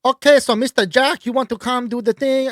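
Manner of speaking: put-on Asian accent. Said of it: "what do you want me to do".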